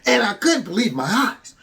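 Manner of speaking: lightly acted testimonial voice; a hint of staged infomercial storytelling. Host mocks the recruit's story, light infomercial testimonial. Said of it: "sounded like an infomercial".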